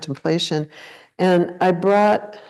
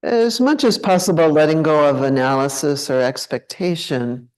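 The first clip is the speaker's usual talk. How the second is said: unhurried meditation guide, long pauses between phrases; guided meditation. Acted. Teacher leading a group to check into the body, guided meditation. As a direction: guide them gently into contemplation, leaving space after each phrase. Leads a contemplation.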